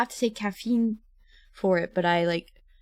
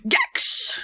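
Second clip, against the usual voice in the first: high mock call; 3 dB louder than usual. Calling out name.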